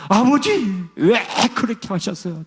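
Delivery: high-pitched pleading cry; imitating a man crying out to his father, pitched high; rising anguished cry. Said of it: "점점, 점점 톤이 올라가면서".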